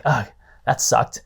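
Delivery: a hint of a weary agent's inner voice; deflated inner groan. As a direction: sigh it to yourself after a rejection. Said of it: "the agent inside's thinking like".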